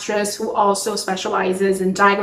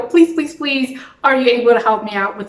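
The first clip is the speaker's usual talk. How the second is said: mild retold begging, pitched up at first; pleading; 2 semitones higher, faster than usual. Emailing a dialect coach for help, mildly pleading. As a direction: imitate a hurried, repeated plea.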